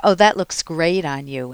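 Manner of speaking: sarcastic praise with a sneer. Retold or imitated. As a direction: say the compliment so it stings. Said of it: "you can hear this, you can feel the sneer".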